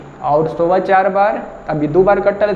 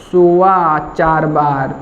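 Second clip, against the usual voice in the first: scolding burst, louder at the start; scolding barber; 3 dB louder, slower than usual. Retold or imitated. Barber scolds the customer who fell asleep. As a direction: snap it at the sleepy customer. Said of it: "डांट के क्या बोल रहा है".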